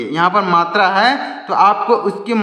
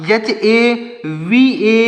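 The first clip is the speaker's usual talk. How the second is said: slow spelling; 3 semitones higher, much slower than usual. Shown as a demonstration. Teacher spelling out हवन letter by letter.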